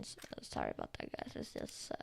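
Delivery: fast whispered apology; quick, whispered sheepish aside. Real, not acted. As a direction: rush the sorry under your breath.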